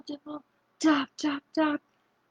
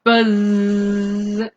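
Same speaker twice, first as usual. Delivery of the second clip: bee buzz; 4 dB louder than usual. Shown as a demonstration. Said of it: "do you know what sound a bee makes".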